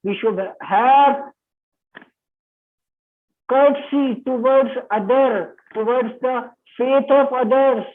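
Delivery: drawn-out dictation pace; teacher reading a quoted judgment aloud, very slow. Shown as a demonstration. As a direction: read each phrase slowly for the class. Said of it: "पढ़कर बताता हूँ".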